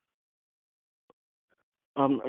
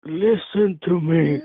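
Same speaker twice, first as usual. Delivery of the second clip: mock stern; 4 semitones higher, 5 dB louder, much slower than usual.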